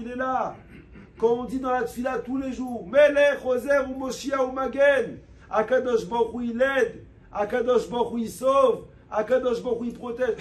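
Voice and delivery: fervent preaching. Real, not acted. Rabbi urging his listeners to pray with heart, fervent preaching. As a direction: preach it with full fire to the congregation.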